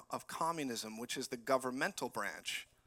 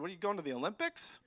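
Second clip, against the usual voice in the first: sarcastic retort; 7 semitones higher than usual. Retold or imitated. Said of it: "I just looked at him and said".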